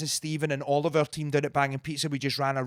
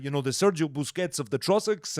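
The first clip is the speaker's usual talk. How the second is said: Mario voice. Retold or imitated. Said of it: "Mario's got a distinct voice".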